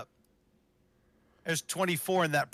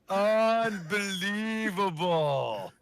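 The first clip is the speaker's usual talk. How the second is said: disbelief; 6 semitones higher, much slower than usual. Real, not acted. Disbelief at big play.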